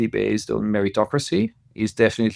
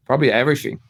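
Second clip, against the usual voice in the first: laughing; 3 semitones higher, much faster than usual. Real, not acted. Guest laughing at his own answer to the host. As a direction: answer through a quick laugh, fast.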